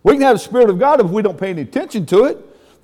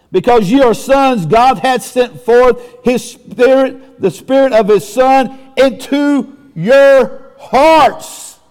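slow, raised preacher's reading; scripture proclamation; slower than usual. Real, not acted. Preacher reading scripture to congregation, slow emphatic proclamation. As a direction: proclaim the verse, drawing out the last words.

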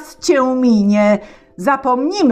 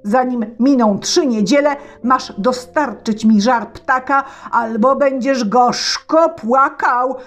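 loud, higher tsar threatening; 6 semitones higher, 4 dB louder than usual. Acted. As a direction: threaten the boy with the stake. (car grozi Wani)

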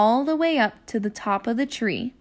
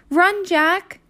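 high, eager little-sister shout; excited call; 8 semitones higher, 4 dB louder than usual. Acted. Annie tells Jack to run, high and eager. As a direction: urge him to run, playfully. Annie calls to her brother.

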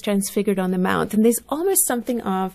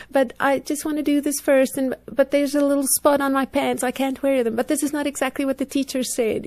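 a mild mock whine, pitched up; whiny child; 4 semitones higher than usual. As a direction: fuss like a compliant but finicky child. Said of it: "there is this whiny voice".

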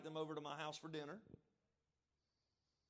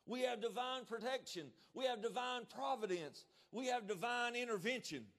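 rising proclamation; 6 semitones higher than usual. Real, not acted. Preacher building to a shout.

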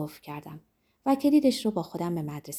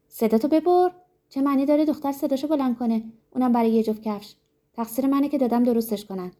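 higher, louder furious mother; angry scolding; 5 semitones higher, 3 dB louder than usual. Acted. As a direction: snap at the girl to shut up.

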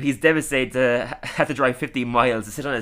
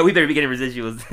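laughing; 4 dB louder, much faster than usual. Real, not acted. Joking line repeated amid laughter.

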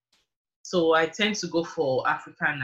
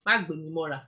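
Yoruba phrase. Real, not acted. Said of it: "Don't carry me".

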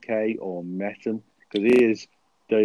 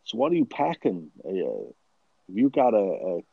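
hammed-up American tough talk, pitched up; American accent; 5 semitones higher than usual. Podcaster asking co-host what he's packing, mock American accent. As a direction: play at being American, badly. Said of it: "let's try and talk American".

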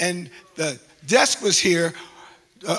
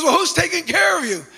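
put-on Jamaican accent greeting; 11 semitones higher, 7 dB louder than usual. The officer greets the pastor loudly in a Jamaican accent. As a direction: hail a friend warmly in a Jamaican accent. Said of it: "in this strong Jamaican accent".

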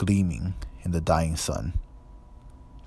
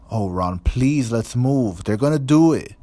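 panicked plea; 5 semitones higher, 6 dB louder than usual. A narrator's reading. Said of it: "Hermione breathed".

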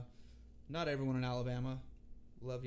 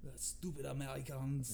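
put-on awful French accent. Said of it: "This is my awful French accent".

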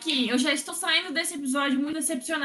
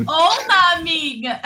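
loud correction; 6 dB louder than usual. Real, not acted. Loudly correcting a friend's slip.

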